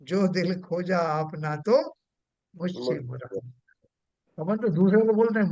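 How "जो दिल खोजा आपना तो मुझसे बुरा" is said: poem recital. Retold or imitated. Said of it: "Kabirdas जी की तरह".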